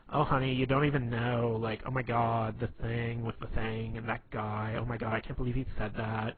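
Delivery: lightly put-on camp gay voice; a hint of camp, gossiping to a girlfriend. Telling a normal story to a girl for laughs, in a lightly put-on gay voice. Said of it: "just do it in a gay voice".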